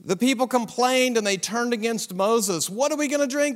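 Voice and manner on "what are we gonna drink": higher, slightly louder demand; a milder retelling of the mob's demand; complaining demand. A narrator's reading. Israelites demanding water again, a lighter mock complaint. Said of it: "they demanded".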